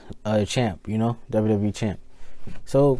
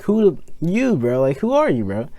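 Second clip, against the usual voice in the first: Conor McGregor; 4 semitones higher than usual. Retold or imitated. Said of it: "Conor McGregor".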